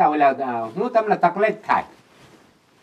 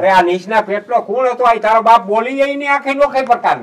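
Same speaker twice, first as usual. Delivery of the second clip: raised, indignant grumbling; real irritated outburst; exasperated cursing; 3 semitones higher, 4 dB louder than usual. Real, not acted. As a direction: curse the caller in exasperation. Cursing the caller after the call.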